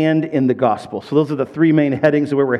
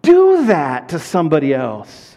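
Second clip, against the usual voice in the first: exasperated disbelief; 4 semitones higher than usual. Retold or imitated. Pastor wonders aloud at scammers, higher and exasperated. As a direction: plead it out in disbelief. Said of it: "thinking to myself".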